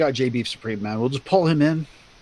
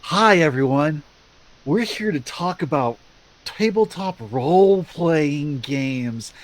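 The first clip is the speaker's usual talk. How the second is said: patronizing host. Retold or imitated. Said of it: "it would be like this".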